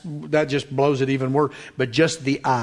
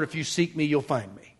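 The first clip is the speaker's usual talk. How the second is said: soft; 6 dB quieter than usual. Acted. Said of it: "God has already said".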